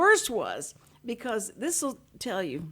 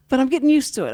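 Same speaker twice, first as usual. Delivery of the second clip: emphatic retort; 5 semitones higher, 9 dB louder, faster than usual. Retold or imitated. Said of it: "I said".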